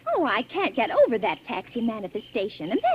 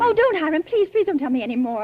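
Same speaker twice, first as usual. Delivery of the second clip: frightened begging; 4 semitones higher, 5 dB louder than usual. Acted. Begging him to stop story.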